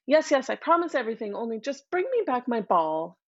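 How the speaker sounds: fast, dismissive yes yes; quick flippant brush-off. Acted. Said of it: "flippantly said".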